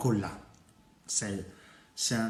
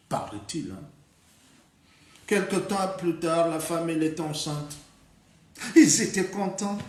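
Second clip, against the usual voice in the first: animated, higher-pitched fairy-tale narration; lively folk-tale teller, punching each new event; storytelling for children; 5 semitones higher, 4 dB louder than usual. A narrator's reading. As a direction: tell it to little ones with big swings and pauses.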